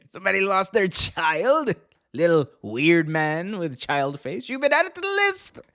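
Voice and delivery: hammed-up wrestler promo, high and drawn out; mock outrage climbing to a high yell; Jericho. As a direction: ham it up like a scolding wrestler. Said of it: "Jericho was like".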